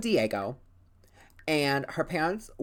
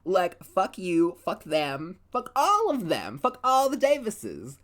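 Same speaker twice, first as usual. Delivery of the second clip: rising, higher angry rant; mock furious; 4 semitones higher than usual. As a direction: build up to a fed-up outburst. Venting as Lois at the Davises.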